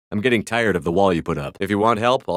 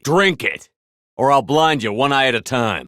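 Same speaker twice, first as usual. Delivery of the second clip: angry threat; 6 semitones higher than usual. Acted. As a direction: force it on them, menacing. Forcing someone with a threat.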